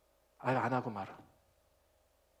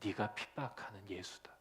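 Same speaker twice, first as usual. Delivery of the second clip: low, softer solemn declaration; voice of Jesus; 9 semitones lower, 14 dB quieter than usual. Retold or imitated. Preacher quoting Jesus rebuking Saul, low and solemn. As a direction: speak it quietly with grave weight. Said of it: "그때 예수님이 뭐라고 하냐면".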